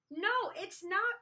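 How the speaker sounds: high, loud, slow contradiction; crying out. A narrator's reading. Minosaur in a food fight, crying out. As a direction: cry out stubbornly, stretching the words. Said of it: "cried Minosaur".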